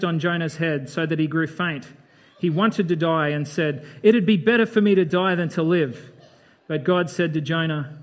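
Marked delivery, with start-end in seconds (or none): 4.0-6.1 mock despair with a laugh in the voice; laughing drama queen. Preacher laughingly voicing Jonah's melodramatic death wish. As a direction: laugh through Jonah's overblown wish to die. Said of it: "This guy's a real drama queen".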